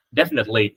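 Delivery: "definitely" said as three syllables, DEF-nit-ly. Shown as a demonstration. Teacher shows students the three-syllable "definitely". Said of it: "ba âm".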